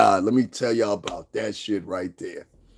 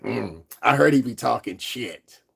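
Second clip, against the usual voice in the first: mocking her; 2 semitones lower than usual. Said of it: "she turned around like".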